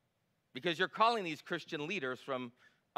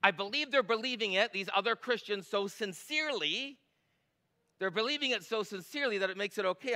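lightly voiced, higher, earnest-sounding quote; mock sincere quote; 4 semitones higher than usual. Pastor quoting fellow Christians' view, lightly mocking. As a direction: echo their earnestness with a hint of mockery. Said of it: "this is the word. Are you ready?".

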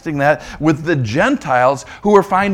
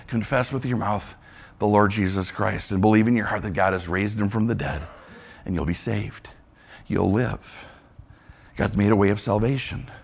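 much softer and lower, gently; soft, tender; 7 semitones lower, 8 dB quieter than usual. Acted. Preacher gently telling the congregation how to be saved, softly and tenderly. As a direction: lay it down tenderly for the listeners.

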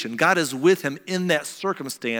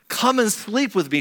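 demanding; 6 semitones higher than usual. Retold or imitated. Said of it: "she demanded".

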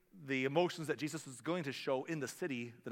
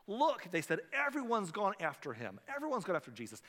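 dismayed Pharisees; 5 semitones higher than usual. Retold or imitated. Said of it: "they're not celebrating when they say that".

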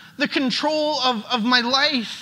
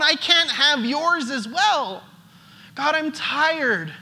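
weary prayer. Acted. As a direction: drag each word out like you're spent.

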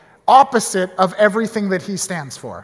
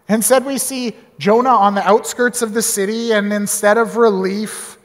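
usual speaking voice

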